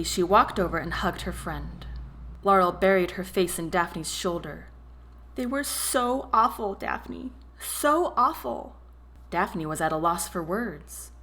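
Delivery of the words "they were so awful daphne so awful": sobbing. A narrator's reading. Laurel sobbing to her friend.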